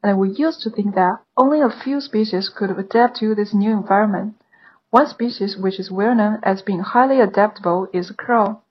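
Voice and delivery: steady, clear exam reading; model read-aloud. Shown as a demonstration. Teacher reads the model passage aloud for students, clear and steady. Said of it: "刚刚我们已经听过示范了".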